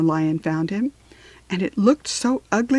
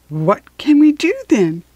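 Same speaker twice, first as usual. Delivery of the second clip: raised question, falling on the last word; lightly voiced Dorothy; 6 semitones higher, 4 dB louder than usual. A narrator's reading. Dorothy asking the lion for help, lightly raised voice. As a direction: ask with a lightly higher character voice.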